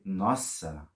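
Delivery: amazed. Shown as a demonstration. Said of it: "you say".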